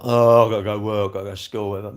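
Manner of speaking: imitated weary groan about duty; mock moaning. Imitating people on their way to work, mock moaning. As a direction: groan it out like a reluctant commuter.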